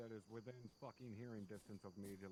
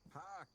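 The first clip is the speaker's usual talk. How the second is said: triumphant laugh; 11 semitones higher, 3 dB louder than usual. Real, not acted. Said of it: "Got you good".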